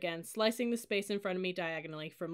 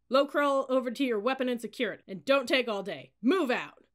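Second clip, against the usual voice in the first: raised, loud order over noise; shouted order; 5 semitones higher, 8 dB louder than usual. A narrator's reading. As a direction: bawl instructions at a cadet. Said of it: "shouted above the noise".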